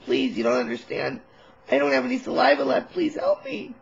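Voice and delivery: rising into a high begging squeak on help me; hammed-up desperate begging; pleading beg. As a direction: plead desperately for water, climbing in pitch. Begging EMTs for water.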